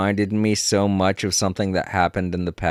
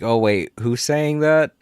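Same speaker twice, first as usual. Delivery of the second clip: higher-pitched puzzled question; confused reaction; 5 semitones higher than usual. Retold or imitated. Podcast listener lost among similar voices, mock confusion. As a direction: act out a puzzled double take, pitch climbing.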